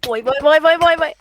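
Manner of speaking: loud excited wails. Real, not acted. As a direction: cry out excitedly. Game excitement.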